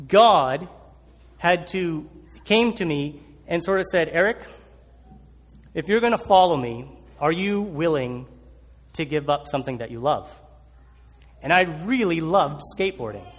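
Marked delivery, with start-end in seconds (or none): 4.1-10.3 a low, soft, slowed voice of God; a hint of a solemn divine voice, low and quiet; God's voice. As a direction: lay it on gently as a calling from above. God speaks to the young man.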